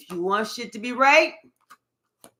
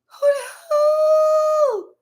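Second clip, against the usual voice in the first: loud, very high "who" held long; long high whoop of surprise; high drawn-out hoot; 5 dB louder, much slower than usual. Real, not acted. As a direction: hoot it out in amazement. Exclaims in excited reaction.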